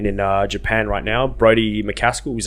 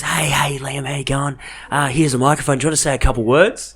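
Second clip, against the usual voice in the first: mimicking Kim Short; 5 semitones higher than usual. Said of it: "walks up to me and goes".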